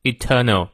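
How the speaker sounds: "eternal" said British, no R in the middle; non-rhotic British "eternal"; British silent R. Shown as a demonstration. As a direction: drop the R in eternal, long "er" vowel. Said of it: "那个R也不念".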